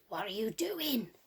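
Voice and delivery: a sly wolf question, whispered; the wolf whispering to Red Riding Hood. Acted. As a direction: lure her in with a hushed voice. Wolf's line whispered.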